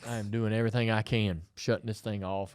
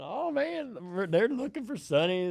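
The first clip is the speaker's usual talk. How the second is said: put-on much higher playful kid voice; girls' voice; 10 semitones higher than usual. Dad voicing the girls in the back seat watching for Sonny. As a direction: voice the girls, bored and hopeful.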